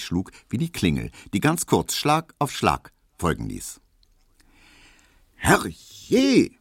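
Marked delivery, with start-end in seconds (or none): 5.4-6.5 high, loud maid's shriek; Hedwig's cry. A narrator's reading. Maid Hedwig startled by the doorbell, shrieking high. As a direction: Hedwig shrieks at the ringing bell. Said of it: "schrie Hedwig drinnen".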